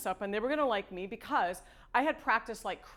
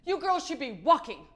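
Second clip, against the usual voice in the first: put-on old lady voice; 5 semitones higher, 5 dB louder than usual. Old New York lady scolding.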